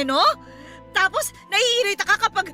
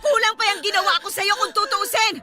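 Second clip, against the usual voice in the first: crying, furious accusations; angry through tears; tearful rage. Acted. Mother attacking, tearful rage.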